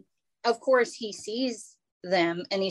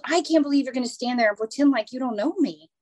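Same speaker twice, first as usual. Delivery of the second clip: indignant lady; 4 semitones higher, 3 dB louder, faster than usual. Retold or imitated. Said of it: "And she goes".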